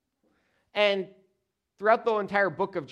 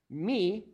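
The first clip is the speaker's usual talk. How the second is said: "me" raised and set apart; stress on ME; 3 semitones higher than usual. Shown as a demonstration. Preacher shows the emphasis on Jesus, "me" stressed. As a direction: give the word "me" its own emphatic beat. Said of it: "with emphasis on Jesus".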